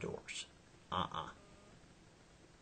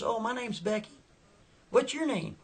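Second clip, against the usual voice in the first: high-pitched put-on girl's voice; Becky; 12 semitones higher, 4 dB louder than usual. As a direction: imitate a young woman, pitched way up. Teller voices the girl Becky.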